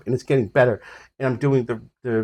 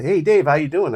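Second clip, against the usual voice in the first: friendly greeting; 5 semitones higher, 7 dB louder than usual. Retold or imitated. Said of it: "he's like".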